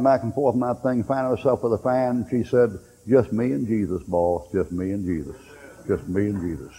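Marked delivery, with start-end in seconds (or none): 3.1-6.7 low and soft, fading away; soft contented murmur. Retold or imitated. Old woman on her porch answering the young preacher, soft and low. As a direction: let it sink lower each time.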